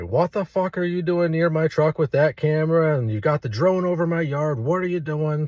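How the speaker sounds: lightly acted angry demand; retold yelling. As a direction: imitate an irate neighbor, held back. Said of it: "Now this dude's yelling at me".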